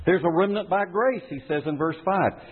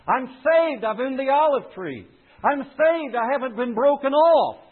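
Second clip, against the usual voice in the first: Paul's voice, much higher and exultant; Paul speaking; 7 semitones higher than usual. Acted. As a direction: proclaim it as Paul, joyfully certain. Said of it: "says Paul".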